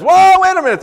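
high, loud sudden surprise; startled whoa. Retold or imitated. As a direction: jolt up as if struck by an idea. Attendant suddenly realizes prophet nearby.

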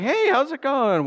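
high, upbeat retold greeting; forced cheer. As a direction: greet with put-on brightness. Greeting the gloomy relative.

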